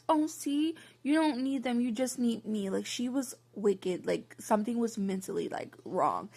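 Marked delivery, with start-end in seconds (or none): 0.1-2.7 imitated weird coaxing. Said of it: "be weird and be like".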